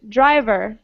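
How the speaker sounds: "Driver" as DRI-ver; first-syllable stress. Shown as a demonstration. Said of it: "stress on the first syllable".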